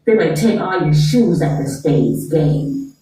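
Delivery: low, prim disapproving elder; white grandparent voice. Acted. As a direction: warn them like a stuffy old relative. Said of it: "Y'all would cut y'all kids off".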